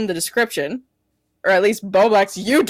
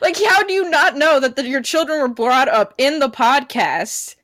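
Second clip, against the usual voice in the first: higher-pitched, incredulous rebuke; mock-outraged challenge, pitched up; indignant disbelief; 6 semitones higher than usual. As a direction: confront them in exasperated disbelief. Indignantly confronting absent man's quoted complaint.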